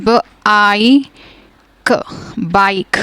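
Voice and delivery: ब- आई क split into separate sounds, then blended into बाइक; teacher blends sounds for pupils; sounding out. Shown as a demonstration. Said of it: "अपना long sound दिलवाएगा".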